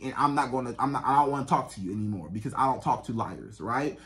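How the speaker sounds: low, controlled warning; calm and firm. Shown as a demonstration. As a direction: set a boundary without yelling. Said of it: "You didn't have to yell".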